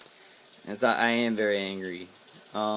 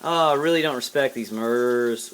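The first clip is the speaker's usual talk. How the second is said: wrong take; 5 dB louder than usual. Shown as a demonstration. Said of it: "kinda be funny and sarcastic about it".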